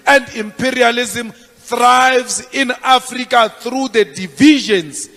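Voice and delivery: rousing rally speech, firm and rising; fiery revolutionary speech. Acted. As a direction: address the comrades like a revolutionary leader. Political rally address.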